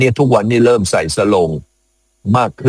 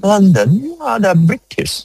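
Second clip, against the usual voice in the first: slow, much higher pitched English with a British lilt; mock British accent; 10 semitones higher, much slower than usual. Shown as a demonstration. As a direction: ham up a posh Brit, word by word. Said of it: "ยกตัวอย่างหน่อย".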